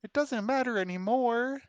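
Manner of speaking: high, firm cleric voice with menace; firm and clear. Acted. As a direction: say it clearly, madness growing. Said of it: "she says firmly and clearly".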